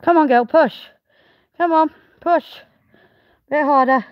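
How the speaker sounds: loud, eager encouragement at lambing; urging the ewe on. Real, not acted. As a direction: coax her hard through the contraction. Urging the ewe through labour.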